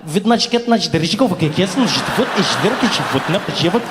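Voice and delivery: rapid Russian-accented English turning to mock Russian; like a DJ scratching in Russian; imitating Russian as turntable scratching. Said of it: "sounds like a D J ... scratching English".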